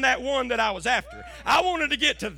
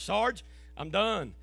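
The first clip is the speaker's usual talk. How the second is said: quiet resignation; 5 semitones lower, 7 dB quieter, slower than usual. Retold or imitated. Retold resignation to his sergeant.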